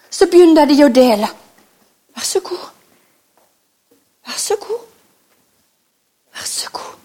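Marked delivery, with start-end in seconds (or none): 2.1-7.0 soft offering. Acted. Disciples handing out food.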